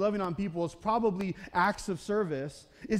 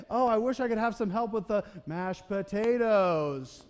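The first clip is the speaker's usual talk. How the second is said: slow, drawn-out wishful complaint; passive-aggressive hint. Retold or imitated. Martha hinting at Mary over the potatoes, mock put-upon. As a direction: fish for help without asking. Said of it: "dropping those little passive-aggressive hints".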